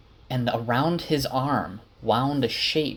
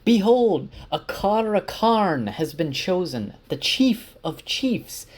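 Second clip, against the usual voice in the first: mock proclamation shout; 8 semitones higher than usual. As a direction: proclaim it to the whole camp like a herald. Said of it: "Bear shouts out".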